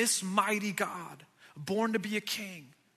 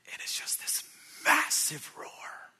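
whispered, drawn-out massive roar; mock massive roar; 8 semitones higher than usual. Pastor mimics cub's big roar, whispered. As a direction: breathe the big roar out slowly. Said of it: "gears up to do it again".

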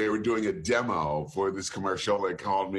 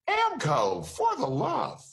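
high-pitched, exaggerated "very white" ad read; hammed-up white announcer, pitched way up; 9 semitones higher, slower than usual. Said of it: "we need you to be very white".

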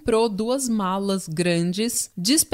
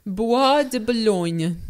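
slow French-accented place name; much slower than usual. Shown as a demonstration. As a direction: drawl it like a Parisian. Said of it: "Eu vou tentar falar com sotaque francês".

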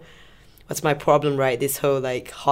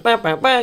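higher comic "bah bah bah"; mock slapstick noise; 7 semitones higher, 3 dB louder than usual. Reviewer describing slapstick comic relief, imitating its noise. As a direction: imitate a cartoon comedy sting.

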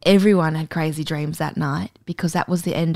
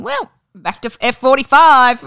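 mock cheerful; 8 semitones higher, 8 dB louder than usual. Mocking someone leaving lockdown.

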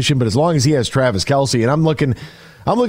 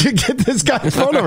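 excited; 10 semitones higher than usual. Real, not acted. Excited praise to caller.

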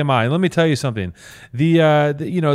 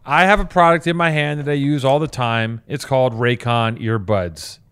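put-on old radio announcer voice; mid-Atlantic announcer, grand and crisp; transatlantic accent; 3 dB louder than usual. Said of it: "He meditates with a transatlantic accent".

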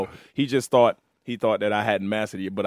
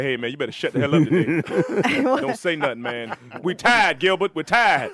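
vocal cords talking; 4 semitones higher than usual. Retold or imitated. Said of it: "Wake up in the morning and say".

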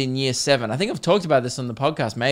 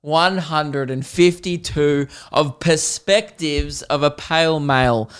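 slow, drawn-out show intro; show announcer; slower than usual. Pretend. Host opening the podcast, slow announcer delivery. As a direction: announce the title slowly and with punch.

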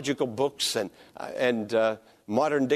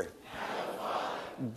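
a hushed, whispered Abba, Father; 8 semitones lower, 14 dB quieter, slower than usual. Shown as a demonstration. Pastor leads the congregation repeating it, whispered. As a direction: breathe Abba, Father with no voice at all. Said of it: "Now say".

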